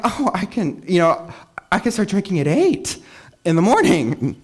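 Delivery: high, breezy, self-mocking voice; carefree mock excuse. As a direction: play your old careless drinking self. Mocking own past drunk logic.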